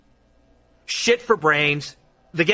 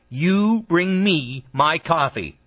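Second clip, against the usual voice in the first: condescending order; slower than usual. Acted. Bossing the gopher.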